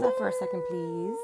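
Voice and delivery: laughing. Real, not acted. Laughing while handing something over.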